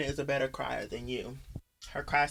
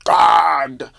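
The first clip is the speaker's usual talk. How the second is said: flustered gasp; 12 dB louder than usual. Retold or imitated. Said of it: "she's standing there gasping".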